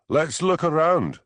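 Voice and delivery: slow, loud call above crashing waves; shouting over the roar. A narrator's reading. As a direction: raise your voice over the surf. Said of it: "shouted Hamish above the roar".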